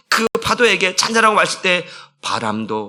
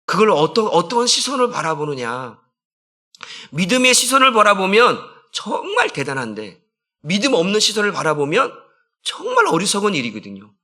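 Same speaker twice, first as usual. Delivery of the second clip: ordinary delivery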